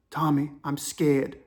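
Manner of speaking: put-on slow, low African-accented plea; imitated scared African caller. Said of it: "The African dude's whispering".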